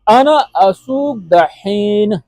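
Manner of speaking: अना असूक दहीन drawn out slowly, word by word; very slow demo. Shown as a demonstration. Teacher to students, dictating the Arabic very slowly. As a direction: lay each word down slowly for the learner. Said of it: "इससे अगला जुमला है".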